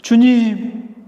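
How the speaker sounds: acting out a father's loud appeal; crying out loudly. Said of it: "이렇게 막 큰 소리로".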